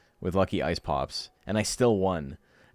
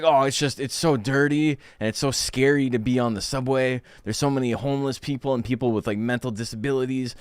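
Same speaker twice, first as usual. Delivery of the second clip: mocking whiny complaint; 4 semitones higher than usual. Mocking a scared subway complainer.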